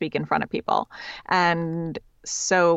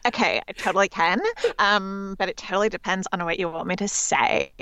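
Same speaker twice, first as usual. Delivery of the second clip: put-on Californian valley girl voice. Shown as a demonstration. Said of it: "Can you do your Valley Girl impression".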